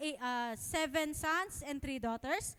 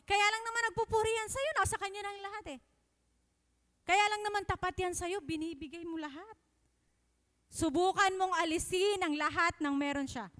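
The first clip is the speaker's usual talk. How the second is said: lightly voiced Satan, higher and pushing; Satan taunting; 4 semitones higher, 4 dB louder than usual. Preacher voicing Satan challenging God, mildly sneering. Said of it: "sabi niya".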